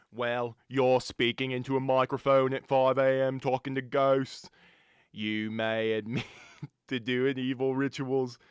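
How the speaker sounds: put-on British accent. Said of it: "my British accent".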